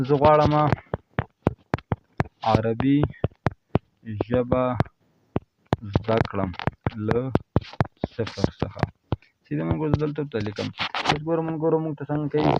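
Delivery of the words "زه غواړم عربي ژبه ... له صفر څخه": halting word-by-word delivery with long gaps; slow dictation. Real, not acted. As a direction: dictate each word separately, starting firm and loud. Dictating second prompt to app.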